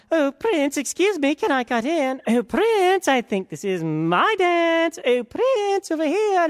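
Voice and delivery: high, loud, gushing ladies; simpering court ladies. A narrator's reading. Court ladies pestering the prince for a dance, high and gushing. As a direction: fawn over the prince to steal a dance. Pushy women cutting in.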